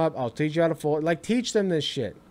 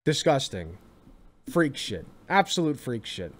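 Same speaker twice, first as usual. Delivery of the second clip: disgusted mutter; 7 semitones lower, 7 dB quieter than usual. Real, not acted. Disgusted reaction to clip.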